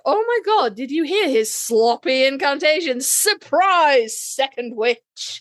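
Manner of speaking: mocking the witch. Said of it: "and she's like".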